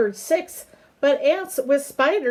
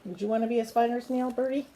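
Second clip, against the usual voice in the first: gentle aside; 6 dB quieter, much faster than usual. Real, not acted. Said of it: "parent asks baby aside".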